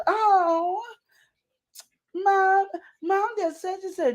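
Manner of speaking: put-on high whiny kid voice; mock kid tattling. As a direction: tattle like a sly child. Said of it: "they know what to do".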